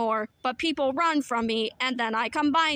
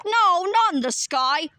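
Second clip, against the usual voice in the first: exasperated; 4 semitones higher, 5 dB louder than usual. Acted. Exasperated at the confused robot.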